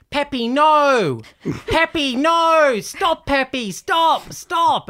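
high, loud, panicked shouting at a dog; frantic yelling. Retold or imitated. Dog owner screaming at her dog in the park, high and frantic. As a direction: yell after a runaway dog in a panic. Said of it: "I overheard this lady go".

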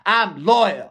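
lampoon a humourless stranger online; baffled online commenter. Retold or imitated. Mocking clueless viewers who don't get the joke, high voice. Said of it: "And they're just like".

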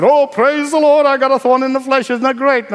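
hammed-up cheerful praise; mock glee at a thorn, said too happily; mock joy. Preacher mocking a glib believer, fake excited. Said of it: "Paul did not run around and said".

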